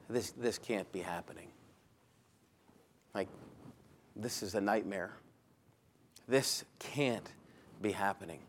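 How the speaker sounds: almost to himself, in disbelief; inner thought. Retold or imitated. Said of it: "and think to himself".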